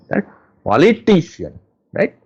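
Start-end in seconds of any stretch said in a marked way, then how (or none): 0.7-1.6 "Politician" with "ti" pushed up and long; stress on TI. Shown as a demonstration. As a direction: punch the third syllable of "Politician". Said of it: "I have stressed litition".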